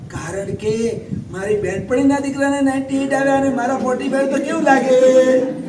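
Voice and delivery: lightly voiced fretting mother, slowing at the end; a hint of a proud mom worried about her friends; mother comparing her son's marks with her friends'; status-anxious mother.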